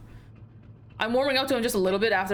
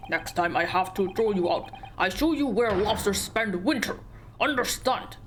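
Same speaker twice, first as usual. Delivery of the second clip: Russian sailor threat. Acted. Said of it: "how do you sound Russian?".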